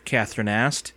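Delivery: usual speaking voice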